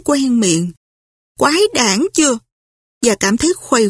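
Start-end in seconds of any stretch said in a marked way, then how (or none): 1.4-2.4 mild angry grumble. Acted. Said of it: "Scarlett giận dữ".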